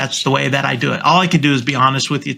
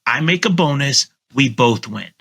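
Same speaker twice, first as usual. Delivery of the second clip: confident sales pitch. Shown as a demonstration. Agent pitching his commission to a seller, confident and assured. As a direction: sell the discount like a win-win. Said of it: "the tonality is very important here".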